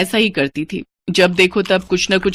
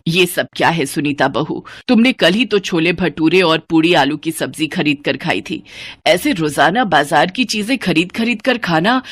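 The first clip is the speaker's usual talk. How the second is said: put-on lower, reproachful older woman; scolding mother-in-law; 3 semitones lower than usual. Mother-in-law scolding Sunita over the snacks, reproachful. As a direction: chide her for wasting money.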